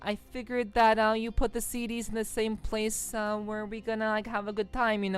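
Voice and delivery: high, loud, sleazy sweet-talking husband; smarmy excuse to honey; sweet-talking his honey about the dragon; mock sleazy husband voice. Playful honey role voice, bad dragon.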